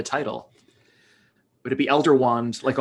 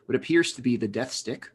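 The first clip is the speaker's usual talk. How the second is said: calm, measured public radio announcer; 3 semitones lower, 7 dB quieter than usual. Pretend. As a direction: read it like a public radio host. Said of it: "public radio voice".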